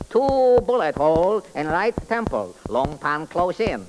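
sing-song comic detective character. Acted. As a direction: play the bumbling detective, chirpy. Detective examines body.

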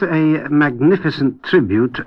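slow, deliberate weight on "magnificent"; "magnificent" given measured emphasis; stress on magnificent. Real, not acted. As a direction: lean on the word "magnificent" as praise. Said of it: "I emphasize the word magnificent".

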